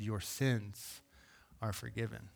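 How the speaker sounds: soft and low, almost hushed; gentle declaration. Retold or imitated. God's grace speaking to the lame man, softly. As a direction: let it fall softly, like grace arriving. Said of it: "God's grace met him in that moment and said".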